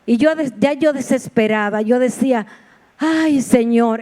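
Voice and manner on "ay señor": slow, drawn-out sigh of a plea; desperate plea. Retold or imitated. A mother praying over her sick daughter, slow desperate plea. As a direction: stretch out the ay like a worn-out cry to God. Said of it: "eso era lo único que me salía".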